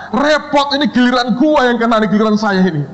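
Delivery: high-pitched comic fretting; mock dread. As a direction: act out the next student dreading their turn.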